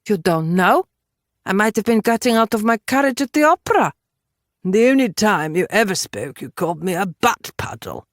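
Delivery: lightly voiced indignant woman; Judith, indignant. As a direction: argue back at an insult. Voices Judith arguing back.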